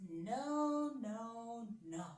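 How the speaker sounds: a stubborn king shouting no; Pharaoh's no. Acted. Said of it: "he said".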